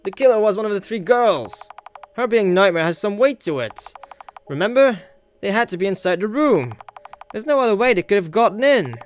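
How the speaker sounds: loud confident argument; forceful argument. Acted. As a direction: press the point hard. Character argues forcefully.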